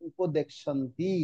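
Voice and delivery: slow উপদেক শান্তি, k then sh; both sounds pronounced. Shown as a demonstration. Teacher reading what is written, slow উপদেক শান্তি with both sounds. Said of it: "উচ্চারণটা দুটাই হবে".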